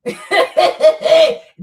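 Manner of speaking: big loud cackling laugh; loud burst of laughter. Real, not acted. Streamer laughs hard at her own rhyme, loud cackle. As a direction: let out a loud, high cackle.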